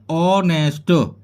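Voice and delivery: ऑनेस्ट starting on the vowel; silent h. Shown as a demonstration. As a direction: say ऑनेस्ट as on-est, no h. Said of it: "एच नहीं बोली जाएगी".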